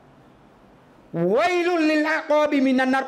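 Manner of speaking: high, very slow ringing cry; full-force call. Retold or imitated. Preacher voices the prophet calling out at full force. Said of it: "บางครั้งนบีก็ จัดเต็ม".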